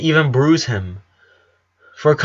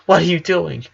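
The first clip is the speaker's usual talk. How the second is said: trembling voice; 4 semitones higher than usual. Acted. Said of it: "she said with a trembling voice".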